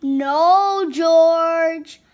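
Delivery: loud, drawn-out mild scolding; a hint of a stern mother correcting her pup. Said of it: "said George's mother".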